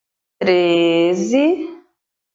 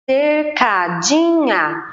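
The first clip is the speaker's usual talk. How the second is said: "Cercadinha" slow and a little higher, counting syllables; 4 semitones higher, much slower than usual. Shown as a demonstration. Teacher counting syllables of cercadinha, slowly. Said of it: "quatro sílabas".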